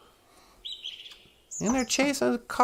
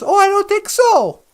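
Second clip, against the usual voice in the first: loud, high mock-heroic comeback; lightly acted movie defiance; defiant retort; 8 semitones higher, 9 dB louder than usual. Hero answering the bad cops, defiant. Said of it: "he goes".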